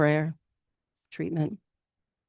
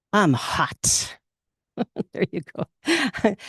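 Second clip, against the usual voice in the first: laughing shrug; 3 semitones higher, much slower than usual. Real, not acted. Laughing at herself.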